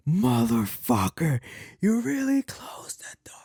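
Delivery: hissed curse in a whisper; whispered cursing. Retold or imitated. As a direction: swear under your breath, whispered. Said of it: "I can hear her cursing".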